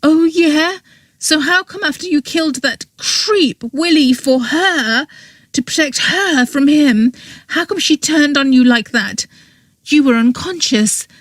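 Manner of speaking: angry confession. A narrator's reading. Girl's angry explanation of the murder.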